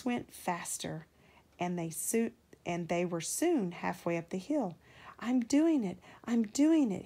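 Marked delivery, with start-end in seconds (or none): 5.2-7.1 out of breath and straining; panting. A narrator's reading. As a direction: pant it out with effort. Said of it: "he panted".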